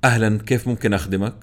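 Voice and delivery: quick, bright call-center greeting; customer service voice. Retold or imitated. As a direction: rattle off the agent's script. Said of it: "مثال".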